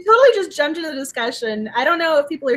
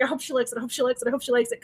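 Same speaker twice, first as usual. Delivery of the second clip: nervous hoping; 2 semitones lower, 8 dB quieter, much faster than usual. Retold or imitated.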